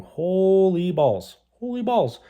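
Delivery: high, drawn-out holy balls; squeaky comic disbelief; exasperated exclaim. Real, not acted. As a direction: stretch it out in disbelief. Sweating in the hot interview.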